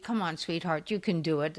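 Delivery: soft, sweet coaxing to a patient; a softly spoken come-on-sweetheart. Retold or imitated. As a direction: coax her gently like a loving nurse. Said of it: "I could be very sweet".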